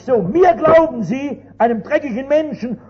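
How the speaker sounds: how can you trust me and not the Saviour; indignant rebuke. Retold or imitated. (empörter Vorwurf, höher und lauter)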